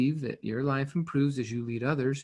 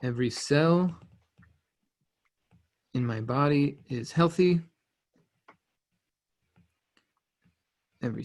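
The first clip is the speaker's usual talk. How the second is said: slow affirmation. Shown as a demonstration. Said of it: "my affirmations".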